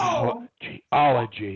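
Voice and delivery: slow "geology", "ge" whispered, rest voiced; whispered first syllable. Shown as a demonstration. Coach gives boy next word, "ge" whispered in "geology". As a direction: whisper the start of "geology", then voice it. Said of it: "let's try this".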